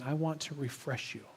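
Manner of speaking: imitated gentle whisper. God whispers a promise of refreshment, hushed. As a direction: say it as a soft murmur. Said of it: "Is God whispering".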